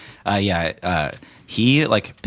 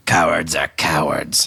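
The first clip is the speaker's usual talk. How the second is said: slow sneer; slower than usual. Acted. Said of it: "he just says".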